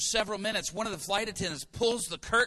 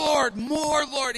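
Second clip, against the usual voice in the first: loud high cry for more; fervent prayer shout; 7 semitones higher, 7 dB louder, slower than usual. Retold or imitated. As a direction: plead loudly in prayer. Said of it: "And I'm like".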